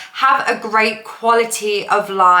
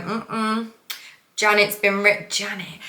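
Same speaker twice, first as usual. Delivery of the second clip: put-on Midlands accent; slower than usual. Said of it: "got this Midlands accent".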